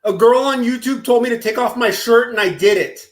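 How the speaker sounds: put-on a child owning up to mommy; childlike confession. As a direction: confess like a worried little boy. Asks as a naive child.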